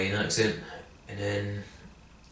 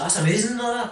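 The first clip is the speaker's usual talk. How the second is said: retold praise; 10 semitones higher than usual. Retelling the mentor's praise.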